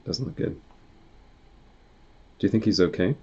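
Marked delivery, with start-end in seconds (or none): 0.0-0.6 hushed unvoiced whisper. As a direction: whisper the bad news. Worried aside after silence.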